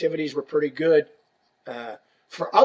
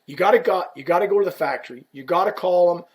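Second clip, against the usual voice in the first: urgent plea; 2 semitones higher, 3 dB louder, faster than usual. Retold or imitated. Koff pleads on phone.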